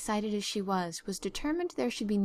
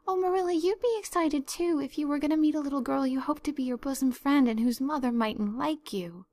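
excited; 5 semitones higher than usual. Acted. Anne nervous before meeting.

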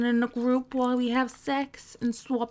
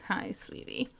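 soft sweet greeting; 8 dB quieter than usual. Acted. Sweet greeting to Paula on phone.

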